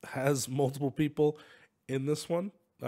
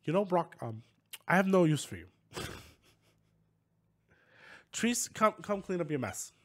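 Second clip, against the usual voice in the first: Elon Musk voice; 4 semitones higher than usual. Acted. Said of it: "Elon Musk accent".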